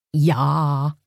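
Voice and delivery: put-on light Pennsylvania Dutch accent; a touch of Pennsylvania Dutch. A narrator's reading. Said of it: "with her best Pennsylvania Dutch accent".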